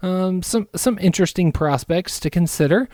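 a hint of a smarmy front office guy; mock Bulls GM. Pitching a trade to the Wolves GM in a put-on smooth GM voice. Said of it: "Why does the Chicago G M sound like I wanna kick his ass?".

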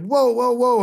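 high, astonished whoa; shocked driver reacting to the news; stunned whoa. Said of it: "I just went".

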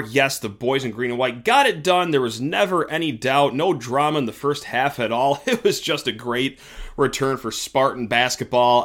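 mildly sarcastic praise; mock cheer for an underwhelming win. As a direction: overstate the praise with light sarcasm. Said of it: "probably tell my voice I'm being a little sarcastic".

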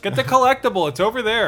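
put-on high, loud kid gamer. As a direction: bark orders like a kid gamer.

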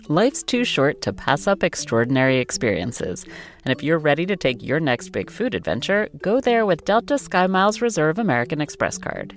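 lively, polished sponsor read. Acted. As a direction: sell the experience with upbeat emphasis. Host reads sponsor message.

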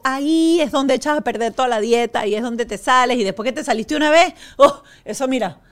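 chatty, lively sponsor pitch; ad read. Real, not acted. Host invites listeners to try protein bars, ad read. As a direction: pitch the snack like a friendly host.

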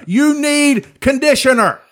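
high slow fussy voice; prissy salon talk; mock advice voice. Voicing hair advice.

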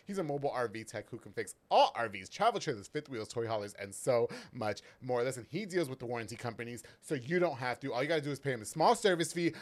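lively sponsor shoutout; ad read. Acted. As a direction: pitch it like a local radio spot.

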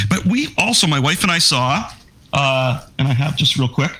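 hoarse, tired voice giving out. Real, not acted. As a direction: voice fading and giving out. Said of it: "Sorry, I'm losing my voice a bit".

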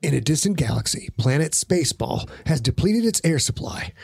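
lightly voiced movie trailer narrator. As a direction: read it like a film trailer, big. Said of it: "in movie voice".

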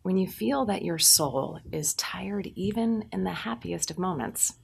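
gentle, intimate voiceover; soft ad read. Acted. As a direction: close to the mic, warm and tender.

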